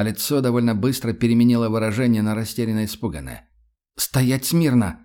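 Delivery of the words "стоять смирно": slow, louder drill order; commanding tone. Acted. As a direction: snap it out like a sergeant. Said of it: "всё тем же командным тоном".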